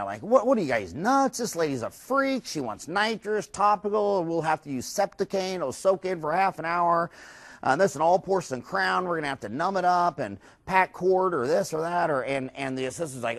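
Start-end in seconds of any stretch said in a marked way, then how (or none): 0.2-12.1 mock annoyed. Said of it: "the assistants are all mad".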